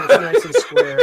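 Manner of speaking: laughing. Real, not acted. Player laughing while ordering.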